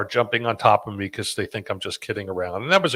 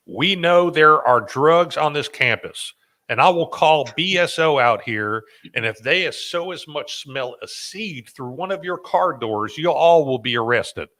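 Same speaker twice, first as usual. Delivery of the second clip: Nancy; 5 semitones higher, 3 dB louder than usual. Retold or imitated. Camp director warning all the counselors about drugs, put-on accent. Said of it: "That's a great accent".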